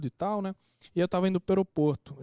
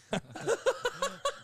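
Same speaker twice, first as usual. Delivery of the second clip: burst of laughter. Real, not acted. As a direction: let a real laugh burst out. Laughs at wife's warning.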